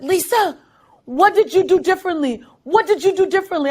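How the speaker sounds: high, eager questions; excited coach. Retold or imitated. Coach running up to ask what changed, excited and high. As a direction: press her, amazed.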